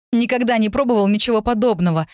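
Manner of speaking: put-on earnest young man, openly impressed; sincere amazement. A narrator's reading. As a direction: marvel honestly at the taste. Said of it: "искренне сказал он".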